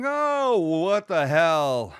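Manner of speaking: high, long-drawn-out exclamation; mock carefree. Imagining someone with that luxury, mock carefree. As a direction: stretch it out in a high mock-casual singsong.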